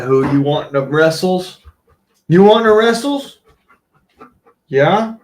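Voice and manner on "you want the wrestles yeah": playful dog taunt. Real, not acted. Baiting the dog into playing.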